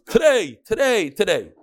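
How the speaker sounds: half-yell it as his hidden thought; mental scream. Acted. Teacher acting the vower's inner scream. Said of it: "he screams".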